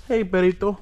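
normal talking voice

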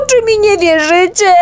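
very high, loud, tearful wail; desperate cry. Acted. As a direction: plead in despair, close to sobbing. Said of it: "krzyknął z rozpaczą". (z rozpaczą, płaczliwie)

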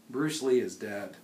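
ordinary delivery

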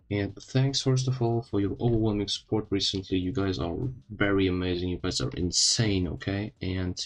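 swollen mouth after dental surgery; just had wisdom teeth removed. Real, not acted. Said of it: "I'm sorry if I sound a bit weird, but I got my wisdom teeth removed".

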